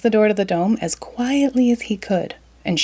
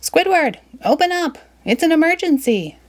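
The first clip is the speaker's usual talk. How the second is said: SpongeBob voice; 10 semitones higher than usual. Acted. SpongeBob urgently knocking, calling out.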